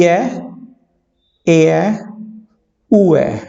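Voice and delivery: each diphthong said alone with pauses; diphthongs modeled. Shown as a demonstration. Teacher reading diphthong symbols to the class. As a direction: drill the diphthongs one by one. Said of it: "चलिए पहला देखते हैं".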